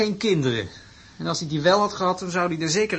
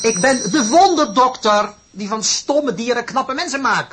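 grand professor; 3 semitones higher, 5 dB louder than usual. Acted. Plays grand wonder doctor.

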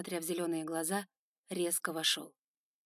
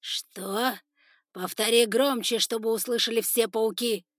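loud, pitched up order; commanding demand; 3 semitones higher, 8 dB louder than usual. Acted. Spider lord demanding his son repeat it, loud command. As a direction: make him say it before all.

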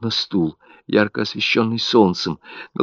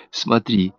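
manic coaxing; 10 semitones higher, 3 dB louder than usual. A narrator's reading. Mother holds out his favourite chocolate, coaxing turning to manic high pitch. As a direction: tempt him with chocolate, growing frantic.

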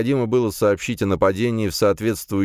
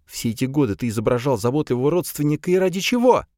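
bitter accusation; 9 semitones higher than usual. A narrator's reading. Alisa accusing her traitor uncle.

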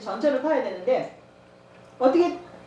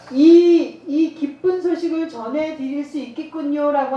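beaming joyful announcement; 3 semitones higher, 7 dB louder, slower than usual. Shown as a demonstration. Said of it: "하는 그 표정이".

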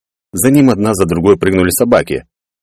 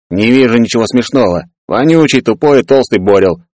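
scornful grumbling; 4 semitones higher than usual. Acted. Peller scornfully introduces his sidekick.

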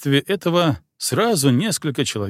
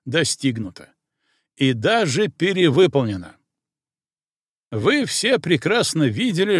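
colonel's speech; 3 semitones higher than usual. Acted. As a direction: speak to the ranks from the podium.

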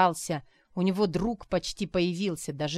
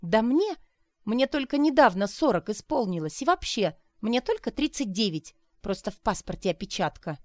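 high, loud flustered denial; indignant flustered claim; flustered protest; 4 semitones higher, 3 dB louder than usual. Acted. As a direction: hurry to correct her age. Arina flustered about her age.

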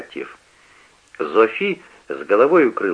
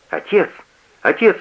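a rising plea, getting higher each time; exclaiming; 9 semitones higher, 3 dB louder than usual. A narrator's reading. Heinz cries out to father, rising alarm. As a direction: call out to stop the row. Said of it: "восклицает Гейнс".

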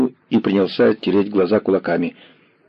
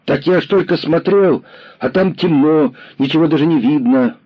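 put-on high boy's voice, rushed, louder; rattling boy; 8 semitones higher, 3 dB louder than usual. A narrator's reading. Lame boy rattling off excuses to the commissar. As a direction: gabble the admission fast. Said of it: "снова затараторил мальчик".

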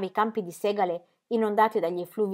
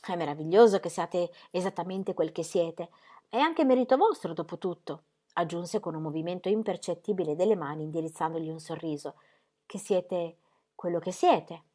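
reverent admiration. Acted. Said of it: "con reverenziale ammirazione".

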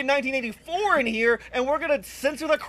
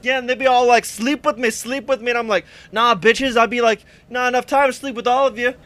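dude bro; 2 semitones lower, 4 dB louder than usual. Acted. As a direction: brag like a club bro. Plays a club-going bro.

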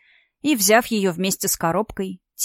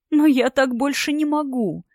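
moaned; 6 semitones higher than usual. A narrator's reading. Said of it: "простонала она".

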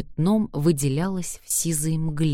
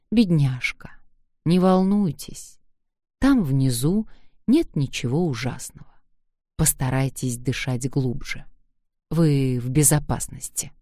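tender comforting. Acted. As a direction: reassure her gently. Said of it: "ласково утешал её".

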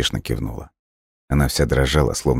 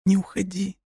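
soundless plea; 5 dB quieter than usual. A narrator's reading. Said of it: "беззвучно повторяли её губы".

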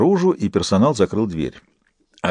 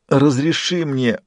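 pleading; 4 semitones higher than usual. A narrator's reading. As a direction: beg him gently. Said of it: "взмолился Фист".

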